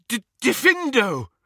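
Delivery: shaky witch stumbling into the spell; trembling spell. A narrator's reading. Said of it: "trembling all over".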